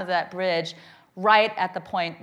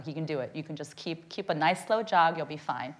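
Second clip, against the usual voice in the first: softly coaxing herself on; a low murmured self pep talk; hushed self encouragement while exhausted; quiet pep talk to herself; 5 semitones lower, 5 dB quieter than usual. Retold or imitated. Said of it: "give myself a pep talk".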